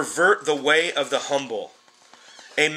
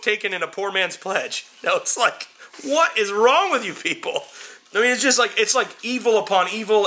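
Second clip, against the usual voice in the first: pitched up high in outraged disbelief; 6 semitones higher than usual. Real, not acted. Preacher to his listeners, in high outraged disbelief. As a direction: hammer the outrage, voice climbing.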